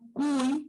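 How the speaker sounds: "Cuy" drawn into a u-i glide; Y sounded as I. Shown as a demonstration. Teacher explaining the diphthong to pupils, Y sounded as I. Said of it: "está sonando como una I".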